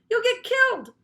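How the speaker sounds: high loud warning; alarmed shout. A narrator's reading. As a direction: yell the danger. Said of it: "Andrea shouted".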